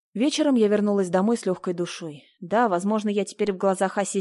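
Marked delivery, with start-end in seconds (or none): none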